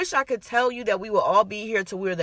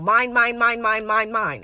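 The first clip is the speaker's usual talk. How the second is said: mock toddler chanting mine, a bit louder; toddler whining; 4 dB louder than usual. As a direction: play a greedy two-year-old, half in jest. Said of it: "You're not a two-year-old".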